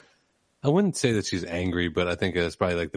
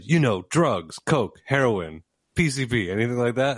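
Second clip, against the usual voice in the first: lightly acted exasperation, listing each item; a touch of mock impatience on each word; retold eye-rolling exasperation; 2 semitones higher than usual. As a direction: imitate a mildly impatient doctor spelling it out. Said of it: "did a hard exhale while rolling her eyes".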